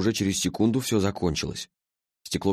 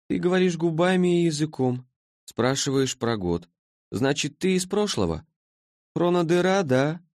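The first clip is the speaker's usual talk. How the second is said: sleepy being from the future, puzzled; languid creature; 9 semitones higher than usual. A narrator's reading. Creature's voice in story.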